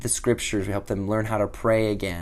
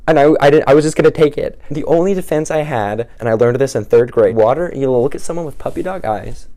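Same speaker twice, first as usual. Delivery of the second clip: louder, urgent storytelling; intense telling; 2 semitones higher, 9 dB louder than usual. Real, not acted. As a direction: push the tension of the moment hard. Tense climax of the story.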